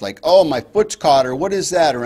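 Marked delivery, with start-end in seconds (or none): 0.2-1.3 distressed fawn. Shown as a demonstration. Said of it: "a fawn in distress". 1.4-1.9 alarmed fawn. Shown as a demonstration. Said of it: "a fawn in distress".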